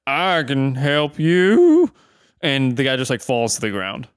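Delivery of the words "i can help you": put-on slow slurred drunk drawl; lightly voiced stumbling drunk.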